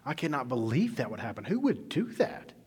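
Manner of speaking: outraged disbelief. Retold or imitated. David reacting to Nathan's story, hammed-up outrage. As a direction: play David's indignation, in disbelief. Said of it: "He was like".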